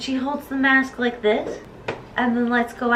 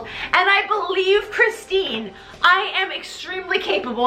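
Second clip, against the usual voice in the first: higher, emphatic insisting; mock self-important protest; 4 semitones higher than usual. Meg arguing that she is capable, higher indignant insistence. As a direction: plead your credentials with comic conviction. Meg pleads her case.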